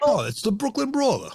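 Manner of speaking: high, ringing ring announcer. Acted. Mock announcing a wrestler.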